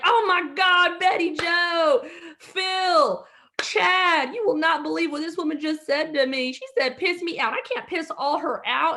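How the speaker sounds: high, loud, outraged Southern cashier calling her coworkers; cashier losing it. Retold or imitated. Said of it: "Now the lady loses it".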